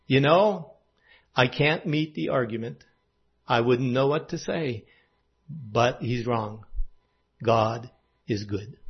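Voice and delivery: inner thought. Retold or imitated. Boy quietly thinking to himself at the party, hushed inner voice. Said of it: "I'm thinking to myself".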